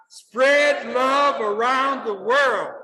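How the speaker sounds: loud, high, drawn-out rallying call; like you mean it. Shown as a demonstration. Speaker urging audience to repeat wholeheartedly, emphatic rallying call. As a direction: stretch every word out with full conviction. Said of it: "Say it like you mean it now".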